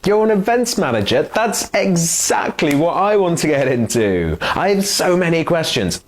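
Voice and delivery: high, fast eager questions; gushing at a new contact; an overeager fan of the job; eager excitement. Acted. Overeager job seeker role-play.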